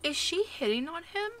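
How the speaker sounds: high, loud disbelieving question; shocked. Real, not acted. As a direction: gasp it out in shock. Watching sims flirt in shock.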